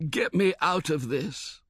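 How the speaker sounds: weak, slow and pleading; barely getting the words out, seasick; feeble reply. A narrator's reading. Seasick passenger begging the steward, feeble. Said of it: "was the feeble reply".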